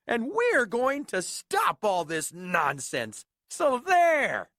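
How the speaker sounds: loud jeering monkey shout; mocking shout. Monkeys jeering at Horton, loud and mocking. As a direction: shout him down, sneering. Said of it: "came shouting".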